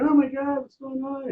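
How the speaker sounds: high-pitched imitation of a panicking nurse; mock screaming nurse. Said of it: "the nurse started screaming".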